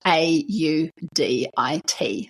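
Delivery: A U D I T spelled slowly letter by letter. Shown as a demonstration. Spelling out the web address for listeners, slowly letter by letter. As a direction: spell out each letter of AUDIT slowly and clearly. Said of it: "can't understand my Kiwi accent".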